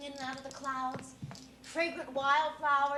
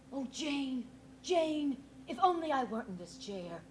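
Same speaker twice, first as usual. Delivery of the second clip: breathy voice. Retold or imitated. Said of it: "in that breathy voice".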